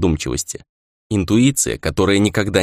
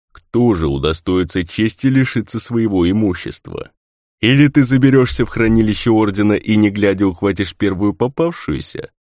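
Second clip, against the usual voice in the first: creaky spirit voice. A narrator's reading. Spirit Kodzu mocking Rei.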